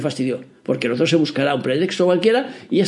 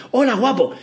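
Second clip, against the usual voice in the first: put-on much higher, sweet greeting to a child; shop people answering; 9 semitones higher than usual. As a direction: coo it like an adult charmed by a toddler. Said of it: "la gente se giraba y decía".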